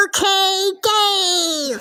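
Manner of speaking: high squeaky chipmunk call; sped-up cartoon chipmunk shout. Real, not acted. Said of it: "Do I sound like a chipmunk there?".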